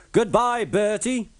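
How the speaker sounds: high, loud cheeky goodbye; calling goodbye. A narrator's reading. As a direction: call it out as you sail past. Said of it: "called Thomas".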